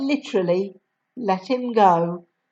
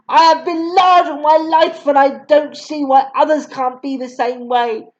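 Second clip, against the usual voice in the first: indignant headmistress; 4 semitones higher, 4 dB louder than usual. Acted. Headmistress retorts angrily.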